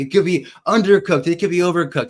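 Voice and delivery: playful over-the-top book voice; mock Dickens narration. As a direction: read it like a grand Victorian narrator, half-joking. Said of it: "I love what Charles Dickens says here".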